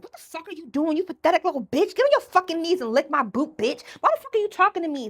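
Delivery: loud, high furious yelling; yelling dom. Retold or imitated. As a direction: scream down at a sub. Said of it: "I just start yelling at people like".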